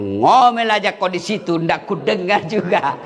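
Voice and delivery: husband jeering down the well, half laughing; gloating husband. Acted. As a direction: taunt her with a laugh. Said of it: "Dia bilang suaminya". (suami mengejek istri di dalam sumur sambil tertawa)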